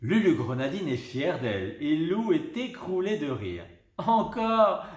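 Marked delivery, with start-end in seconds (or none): 4.0-4.9 high loud laughing cry; gasping out more through giggles; hiccuping with laughter. A narrator's reading. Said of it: "hoquette Lou". (hoqueter de rire, voix aiguë)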